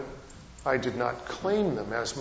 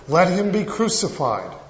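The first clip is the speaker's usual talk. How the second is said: louder mock crowd cry; 4 semitones higher, 5 dB louder than usual. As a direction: call it out like the crowd demanding death. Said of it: "They just cry all the louder".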